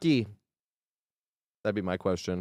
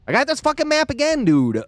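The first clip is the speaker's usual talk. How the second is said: exasperated; 13 semitones higher, 3 dB louder than usual. Real, not acted. Streamer annoyed at the map.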